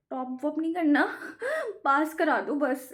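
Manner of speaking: whiny half-laughing beg; laughing plea. Real, not acted. Student laughingly begging viewers to pray she passes.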